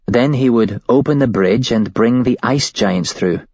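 a hint of a scared young woman; shaken woman witness. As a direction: voice her as a rattled witness telling it. Woman recounts the cult's plan.

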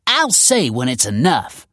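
slow, loud breathless retort; puffing. Acted. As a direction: puff it out, winded. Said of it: "puffed her foster mother".

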